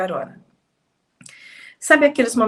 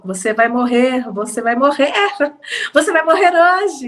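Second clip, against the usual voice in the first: retold loud threat; 3 semitones higher than usual. Robber threatening the driver at knifepoint, retold as a mounting loud threat. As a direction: imitate the robber, escalating with each repeat. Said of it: "ele dizia em alto bom som".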